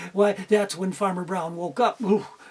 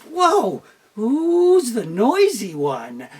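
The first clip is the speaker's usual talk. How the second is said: chicks; 4 dB louder, much slower than usual. Acted. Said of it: "all the chicks stopped and went".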